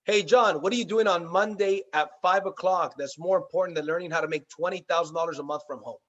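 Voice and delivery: enthusiastic, punchy invitation; excited go-getter. Shown as a demonstration. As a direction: act as if you can't wait to tell him. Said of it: "Get excited, act as if".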